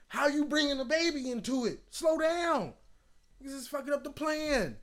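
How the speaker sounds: very high squeaky falsetto; falsetto protest. Acted. Friend objecting to a baby before the kingdom, falsetto protest. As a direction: protest in a thin, high head voice.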